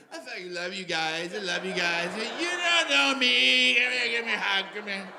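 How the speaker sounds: put-on slurred, gushing drunk affection; sloppy drunk voice. Drinker professing love to pals, sloppy drunk slur. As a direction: slur and drag the words like a drunk. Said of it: "you might get that sloppy drunk voice".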